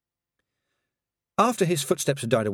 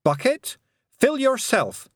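loud, high command; 4 dB louder, slower than usual. A narrator's reading. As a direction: order the bucket boldly. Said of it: "she commanded".

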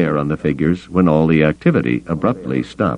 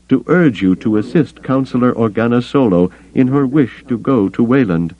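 high-pitched, formal alien counselor; indignant Bothan; 7 semitones higher than usual. A narrator's reading. Caught Bothan explaining himself to Captain Carter, indignant. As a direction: justify yourself in a raised, ruffled voice.

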